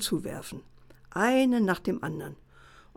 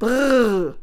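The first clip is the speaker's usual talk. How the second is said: loud, higher call to stop the horse; fisherman's whoa; 4 semitones higher, 7 dB louder than usual. A narrator's reading. Fisherman halts horse at fox.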